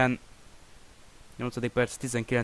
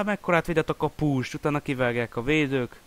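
excited commentary; 5 semitones higher, 4 dB louder than usual. Real, not acted. After big save.

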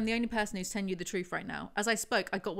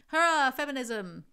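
louder, slow, hammed-up sarcastic hooray; mock cheer; 5 semitones higher, 7 dB louder, slower than usual. Reviewer mocking the book's girl power, sarcastic slow cheer.

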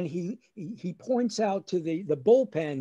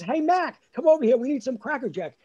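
imitated dad hailing a vendor, higher; yelling out; 5 semitones higher, 4 dB louder, faster than usual. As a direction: call out across the stands. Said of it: "my dad yells out".

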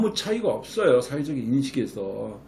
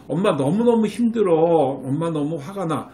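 weary upset; 2 semitones higher, 3 dB louder than usual. Shown as a demonstration. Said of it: "맑게 알아내면".

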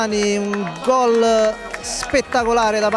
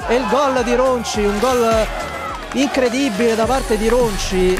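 breathless italian goal commentary; 2 semitones higher than usual. Real, not acted. Winning goal called in highlights.

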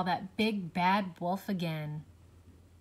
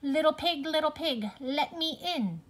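louder sheep-like wolf voice; wolf putting on a sheep voice; 7 semitones higher, 5 dB louder than usual. A narrator's reading. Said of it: "He was dressed as a sheep".

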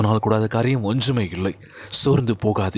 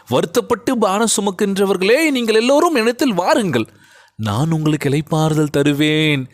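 impassioned recitation, much higher on the first two lines; fervent scripture cry; 6 semitones higher than usual. Shown as a demonstration. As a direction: lift the verse up like a preacher's call. Same verse, preached fervently.

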